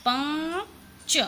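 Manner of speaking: पाँच split into पाँ then a small pause before च; slow nasal पाँच. Shown as a demonstration. Teacher demonstrates pausing inside पाँच. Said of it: "जब बोलेंगे तो पा ... फिर बोलेंगे च".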